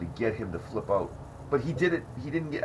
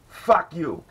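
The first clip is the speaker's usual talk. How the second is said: a loud, higher jeering fuck you; heckler's taunt; 7 semitones higher, 6 dB louder than usual. Retold or imitated. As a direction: throw the insult up at the stage. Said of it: "And he's like".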